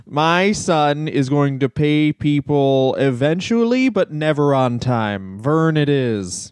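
slow, deliberate mock-proud father naming his baby; mock proud parent. Dad to newborn son, slowly and smugly naming him. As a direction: announce the name slowly like a smug dad.

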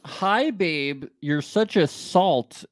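light imitation of Chloe's British accent; quoting Chloe in a mild British accent. Host quoting Chloe to co-host in mild British accent. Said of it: "in her accent".

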